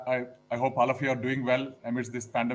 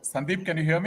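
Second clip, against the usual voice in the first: raised voice to be heard; speaking out loud; 4 semitones higher, 5 dB louder than usual. Real, not acted. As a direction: project it louder into the mic. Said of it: "I'm speaking out lou".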